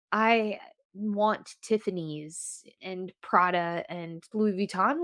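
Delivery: lightly voiced lady, slow and drawn out; a slow, mild impression of a luxury-loving lady; materialistic lady. Podcaster mimicking a lady for audio listeners, slow lady impression. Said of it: "doing impression of a lady".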